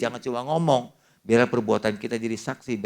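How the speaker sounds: normal talking voice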